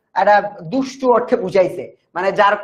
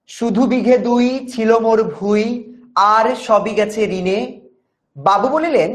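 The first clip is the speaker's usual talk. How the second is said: measured recital of verse; poem recitation. Acted. Teacher reciting the poem's opening lines to students. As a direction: read it as a classroom poem, line by line.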